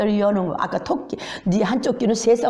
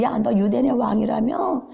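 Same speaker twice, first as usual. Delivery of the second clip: mocking taunt; 4 semitones higher than usual. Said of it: "그 앞에서 조롱하죠".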